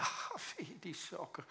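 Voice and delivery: whispered, slow aside about the socks. Retold or imitated. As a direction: breathe it out, slowly, no voice. Mock reaction to socks. (fluisterend, langzaam)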